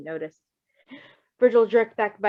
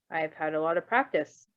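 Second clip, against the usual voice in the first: easy reply; 4 semitones lower than usual. Acted. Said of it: "Bluebird replied easily".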